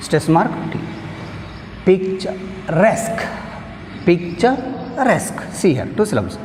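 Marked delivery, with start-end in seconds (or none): 1.9-3.2 Picturesque slowly in two parts, stressing RESQUE; stress on last syllable. Shown as a demonstration. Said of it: "we have stress mark on". 4.1-5.4 picturesque, slow and high, split before a stressed RESQUE; stress on last syllable. Shown as a demonstration. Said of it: "we have stress mark on".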